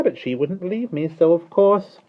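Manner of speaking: gossiping starling. Acted.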